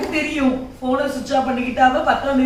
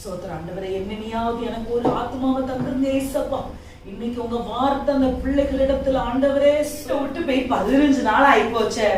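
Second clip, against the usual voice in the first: prayer. Acted. Praying alone.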